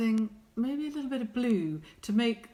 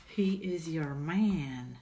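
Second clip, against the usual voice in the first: whisper; 4 semitones lower, much slower than usual. Acted.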